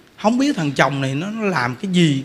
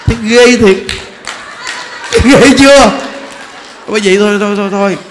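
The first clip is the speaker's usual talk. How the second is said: loud horrified exclaim; 5 dB louder than usual. Real, not acted. Telling listeners how dreadful the wife's act was, loudly. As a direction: shout how awful it is.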